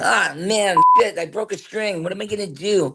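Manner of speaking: whiny, nasally, high-pitched complaining; young man's nasal, dismayed whine; Fry. Acted. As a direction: whine it high like a hapless young band guy. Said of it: "whiny and nasally and complainy".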